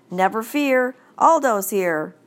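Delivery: cheerful janitor bursting into the dark room; roared. Acted. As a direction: boom it out as you burst in. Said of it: "a familiar voice roared".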